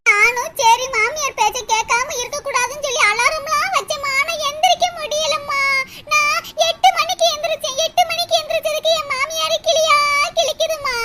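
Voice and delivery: plaintive whine breaking into sobs; hammed-up weepy grumbling; tearful complaint. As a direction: justify yourself tearfully, end sobbing. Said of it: "அழுகுறத நிறுத்திட்டு".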